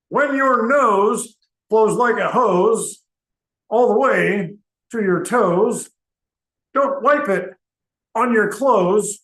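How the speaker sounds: put-on sing-song rhyme read slowly to the kids; recited rhyme. Nurse reciting a flu rhyme to the kids, in a sing-song way. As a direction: recite it like a school health jingle. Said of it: "we created a little rhyme".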